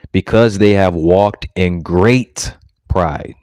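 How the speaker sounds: very slow, every word weighed; slow solemn pronouncement of pride; drawn-out scripture reading. Acted. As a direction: read it like a verdict from the pulpit. Reading scripture aloud in sermon.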